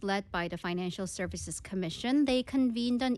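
slow, measured newsreader; news read. Acted. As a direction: deliver it as a news report. Reads the news story in English.

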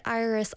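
"Iris" run together on a curled r; mispronounced name. Real, not acted. Streamer slipping on her own name, "Iris" with a smeared r. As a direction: let the r swallow the middle of "Iris". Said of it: "I said it wrong".

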